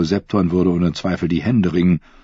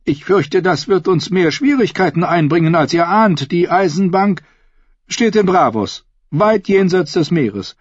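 trembling voice; 12 semitones higher, 4 dB louder than usual. A narrator's reading. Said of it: "mit zitternder Stimme".

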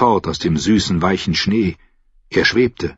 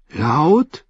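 higher, small unsure question; timid question; 7 semitones higher than usual. A narrator's reading. Sam asks Grenn whether to sing aloud, timid and high. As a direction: ask it like a scared boy.

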